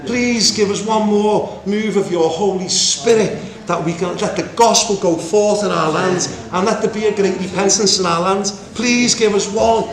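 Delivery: earnest intercessor's plea. Acted. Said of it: "calling for that".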